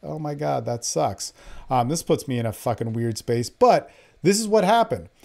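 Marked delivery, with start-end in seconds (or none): 0.0-1.3 dismayed aside. Retold or imitated. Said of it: "I was like".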